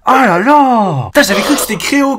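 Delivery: high wail, then a quick high rush; flustered disbelief. Real, not acted. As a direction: wail it high, still reeling. Still reeling from being fooled.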